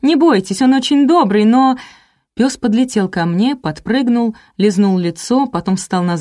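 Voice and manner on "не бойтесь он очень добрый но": высоко и громко, наперебой; крикни гостье издалека, успокаивая; громкий крик хозяйки. A narrator's reading. Хозяйка кричит гостье про собаку. (хозяйка громко кричит гостье, высоко)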